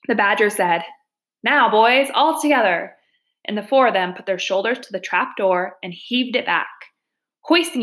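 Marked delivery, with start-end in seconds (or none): 1.4-3.0 mildly raised rallying voice; rally the lads for a heave, a bit higher; rallying call. Acted. Badger rallies friends to heave the trap door, mild rallying call.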